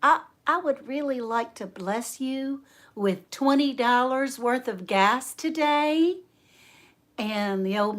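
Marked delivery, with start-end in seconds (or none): 0.0-6.2 hesitant, higher-pitched offer; acted-out shy politeness; timid offer. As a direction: offer it timidly, slowing at the end. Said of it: "very timidly".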